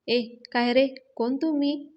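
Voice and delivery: a constable catching a couple, barks at them; constable yelling. Retold or imitated. Constable confronts the couple, loud scolding.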